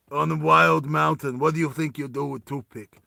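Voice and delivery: lightly put-on Russian accent. Russian teases Roy about his knives, light Russian accent. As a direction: taunt with a hint of Russian accent. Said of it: "Oh, wait, he's Russian".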